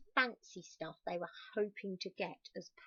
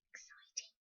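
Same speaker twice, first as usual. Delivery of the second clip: squeaky exciting; 13 dB quieter than usual. Acted. Aside to children, squeaky.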